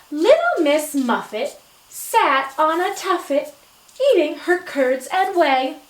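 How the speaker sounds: sing-song nursery rhyme read aloud; expressive poem reading. Shown as a demonstration. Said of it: "our expression in our voices".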